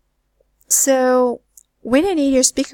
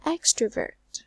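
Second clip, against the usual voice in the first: "Extrovert" stressed on EX, falling away; first-syllable stress; 4 dB quieter than usual. Shown as a demonstration. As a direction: put the weight on EX in "Extrovert". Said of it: "it must be the first syllable".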